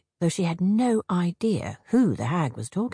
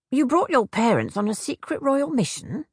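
skeptical; 6 semitones higher than usual. A narrator's reading. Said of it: "with a raised eyebrow".

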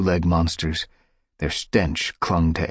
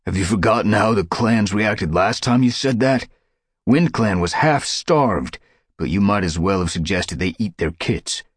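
defiant; 3 semitones higher, 4 dB louder than usual. Acted. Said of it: "A defiant mew".

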